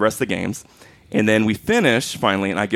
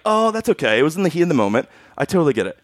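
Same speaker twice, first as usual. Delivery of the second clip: put-on sweet kid voice; 4 semitones higher, faster than usual. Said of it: "he was so nice".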